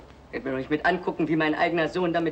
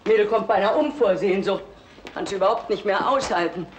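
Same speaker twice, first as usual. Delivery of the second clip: empört; 3 semitones higher, 4 dB louder than usual. Acted. Empört über die Frage der Tochter.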